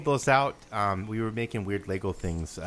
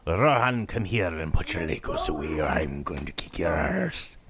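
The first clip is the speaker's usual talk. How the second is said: mock scolding parent; 6 semitones lower than usual. Scolding the kid in jest.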